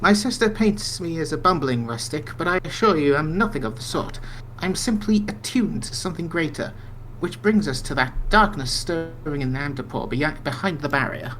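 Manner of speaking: lightly voiced dreamy mystic; NPC brother seer. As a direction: read it as a calm mystic.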